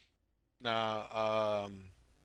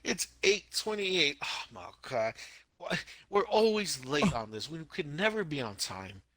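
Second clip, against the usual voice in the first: hammed-up dismay, stretched words; higher-pitched staged fretting; mock exasperation; 3 semitones higher, slower than usual. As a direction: play up the fake panic. Staged panic about being late.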